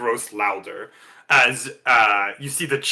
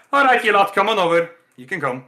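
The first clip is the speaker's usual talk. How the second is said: higher, louder friendly call to the group; booming arena champ; the champ, beckoning; 6 semitones higher, 4 dB louder than usual. Acted. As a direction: wave the party over like a cocky champion. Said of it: "He's like".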